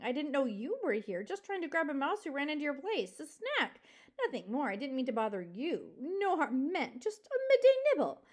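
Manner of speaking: wheedling, pleading excuses; sniveling. Acted. Fox excusing himself to the porcupine, sniveling. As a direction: plead innocence, ingratiatingly. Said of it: "a voice that was best sniveling".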